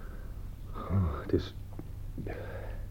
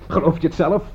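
scornful laugh; 5 semitones higher than usual. Acted. Scornful laugh at his excuse.

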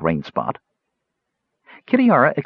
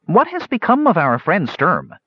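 diplomatic; 7 semitones higher than usual. A narrator's reading. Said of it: "said Cider diplomatically".

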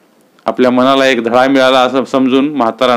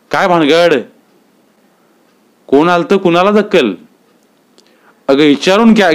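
higher, exasperated questioning; impatient husband; 5 semitones higher than usual. Acted. Husband badgering his mumbling wife, lightly voiced exasperation. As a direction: press her for answers, irritated.

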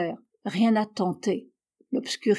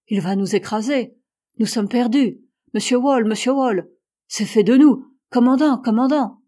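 sailors crying out in terror, rising to a scream for the captain; escalating panicked yell; panicked cries; 2 semitones higher, 6 dB louder than usual. A narrator's reading. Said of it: "Ces cris étaient simultanément proférés".

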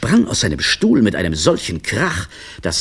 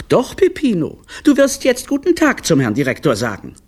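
put-on high, pressing children's voice; insistent big children; 13 semitones higher, 4 dB louder than usual. Big siblings pressing the littlest to greet, insistent and high. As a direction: keep on at the little one, high-pitched.

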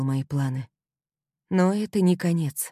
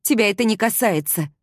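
higher, louder angry bark; a raised furious bark; barking back; 6 semitones higher, 5 dB louder than usual. A narrator's reading. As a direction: snap it back at him. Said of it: "рявкнула в ответ".

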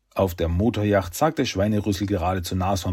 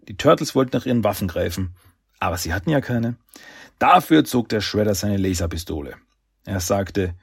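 measured, even storyteller delivery; story narration. A narrator's reading. Narrator tells how Shredder draws his pistol, measured storytelling. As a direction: read it out like an audiobook narrator.

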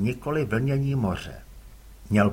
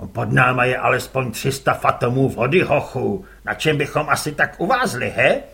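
louder gruff curt reply; gruff father; 3 semitones lower, 6 dB louder than usual. Acted. Father answers his son curtly, gruff.

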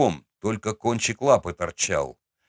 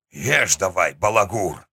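очень старый человек. Acted. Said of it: "прокряхтел на меня дед".

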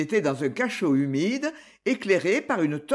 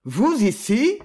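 higher, louder astonished question; startled question, pitched up; surprised; 4 semitones higher, 5 dB louder, slower than usual. Acted. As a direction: creditor astonished to meet his debtor, higher and louder. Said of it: "s'écria-t-il avec surprise".

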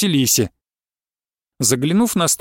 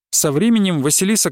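ordinary delivery

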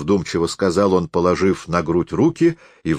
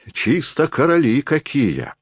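cursing; 7 semitones higher than usual. A narrator's reading. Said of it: "выругался солдат".

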